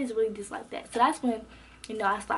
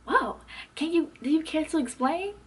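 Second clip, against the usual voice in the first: higher-pitched, animated prompting; dramatic, animated teacher; 5 semitones higher than usual. Retold or imitated. Teacher asks student to explain, dramatic and animated. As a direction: imitate a theatrical teacher inviting an answer. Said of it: "she is so dramatic and, like, animated".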